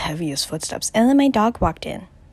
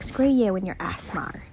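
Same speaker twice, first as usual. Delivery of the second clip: put-on Piggy's accent. Boy answers teasing about asthma, mock Texan accent. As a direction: lightly put on a muddled Texan-British accent. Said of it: "Piggy has an accent".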